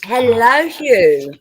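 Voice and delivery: loud, drawn-out mock posh hello; hammed-up posh greeting. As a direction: hail the newcomer in a put-on posh accent. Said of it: "carry on being posh".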